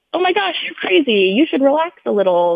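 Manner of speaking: high, airy imitation of a brushing-off nurse; mock dismissive nurse. Imagined nurse dismissing her worry.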